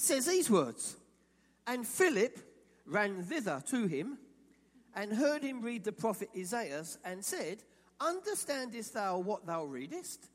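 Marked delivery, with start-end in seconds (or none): 1.6-10.3 King James reading. Shown as a demonstration. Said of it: "if you're a King James Version guru".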